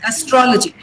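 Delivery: "astrology" as uh-STRO-luh-jee; "astrology" stressed on the second syllable; unstressed first syllable. Shown as a demonstration. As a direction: keep the opening "uh" of "astrology" light, hit STRO. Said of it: "Don't stress uh".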